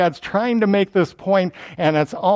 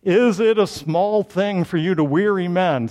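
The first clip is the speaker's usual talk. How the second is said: measured, authoritative proclamation; lightly put-on orator's voice; official baritone voice; 3 semitones higher than usual. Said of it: "doing my baritone voice to sound very official".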